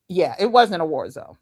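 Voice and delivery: chuckling through the words; laughing. Real, not acted. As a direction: say it while laughing. Laughing at war zone claim.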